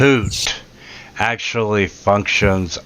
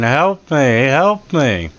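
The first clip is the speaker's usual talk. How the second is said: mild, slightly raised mock plea; mock scream for help; 4 semitones higher than usual. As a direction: imitate a trapped man's cries, held back. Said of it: "the guy in there screaming".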